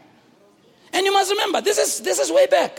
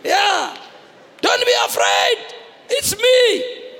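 American Jesus; 7 semitones higher, much slower than usual. Acted. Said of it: "If Jesus was an American, he'd go".

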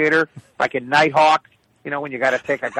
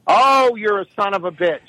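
higher, mock-offended mother; cursing mother; 5 semitones higher than usual. Mother cursing son who was trying to be nice, mock indignant. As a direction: lightly imitate a mother cursing her son. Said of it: "then she just goes on from there".

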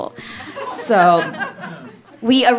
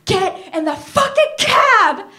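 mock angry order; 9 semitones higher, slower than usual. Furious daughter orders mom into cab.

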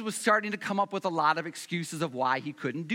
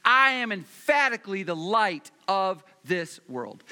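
emphatic Jesus quote; 5 dB louder than usual. Acted. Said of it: "Jesus is saying".

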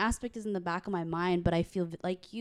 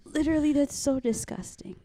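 laughing disgust; 6 semitones higher than usual. Real, not acted.

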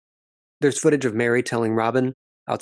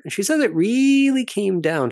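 a higher, slowed "it really came down", each word leaned on; drawn out and pointed, word by word; stressed phrasing; 8 semitones higher than usual. Retold or imitated. Recapper mimicking how the wife said it, slowed and stressed. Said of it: "she says it that way".

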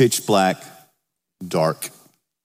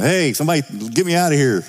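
half-hearted call for help, pitched up and quick; mild pretend yell for help; mock yelling; 4 semitones higher, faster than usual. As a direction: call out for rescue without really shouting. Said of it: "Start yelling".

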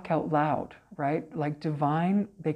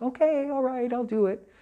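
sheepish giving in; 8 semitones higher than usual. Retold or imitated. Giving in to spirits' demand.

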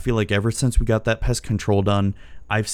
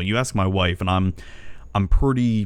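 normal talking voice

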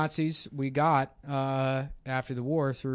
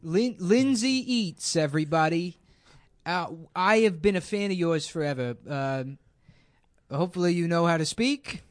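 lightly put-on comedian voice; Seth Dickfield. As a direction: greet a guest in a mild caricature voice. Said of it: "this is just a cruel impression".

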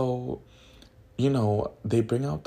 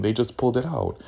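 ordinary talk, nothing marked

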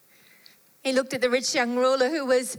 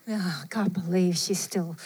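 exasperated; 4 semitones lower than usual. Retold or imitated. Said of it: "like, oh, rolled eyes".

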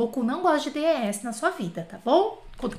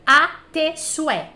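slow, careful model; 3 semitones higher, 6 dB louder, slower than usual. Shown as a demonstration.

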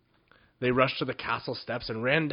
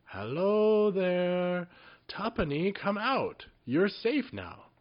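calling into bucket; 8 semitones higher, slower than usual. A narrator's reading.

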